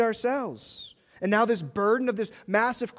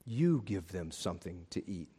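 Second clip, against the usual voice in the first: much lower and softer, a quiet command; Jesus commanding calmly; 12 semitones lower, 10 dB quieter than usual. Retold or imitated. Jesus telling disciples to feed the crowd, low and quiet. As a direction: drop low and lay the task on them. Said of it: "Jesus answered them".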